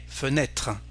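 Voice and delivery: "fenêtre" with Ê as open "eh"; open circumflex E. Shown as a demonstration. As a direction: say "fenêtre" as "fuh-NEH-truh". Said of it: "this E is a".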